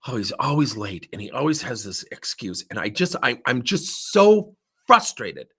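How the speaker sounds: vent, then hit the last words hard; frustrated. Retold or imitated. Client complaining about a late employee, increasingly frustrated. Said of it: "she's describing this young guy".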